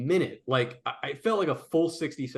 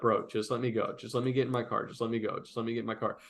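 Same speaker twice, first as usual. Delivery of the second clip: quiet pleading; 3 semitones lower, 6 dB quieter, faster than usual. Retold or imitated. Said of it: "sixty seconds of just me".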